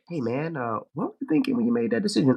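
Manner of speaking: a high, fast, exasperated demand; high, fast version. Shown as a demonstration. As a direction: fire the question off high and quick. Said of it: "as opposed, like you say".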